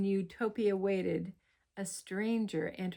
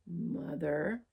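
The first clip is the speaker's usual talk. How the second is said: growled; 3 semitones lower, 3 dB quieter than usual. Acted. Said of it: "growled the creature".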